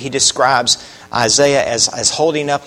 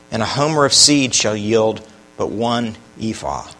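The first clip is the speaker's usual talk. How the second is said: scripture reading. Acted. Preacher reading Isaiah's woe aloud to the congregation. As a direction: read the prophecy with gravity.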